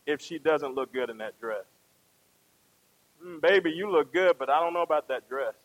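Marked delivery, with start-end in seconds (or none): 3.2-5.5 gently hesitant, doubtful compliment; tactful truth. Acted. Husband being truthful to wife about dress, mildly doubtful. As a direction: let her down gently. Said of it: "Now you're being truthful".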